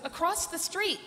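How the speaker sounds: imitating Brent's teasing; cheeky reveal. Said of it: "He goes".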